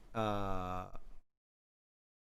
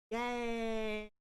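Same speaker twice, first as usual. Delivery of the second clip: excited cheer; 11 semitones higher than usual. Pretend. Cute VTuber cheer.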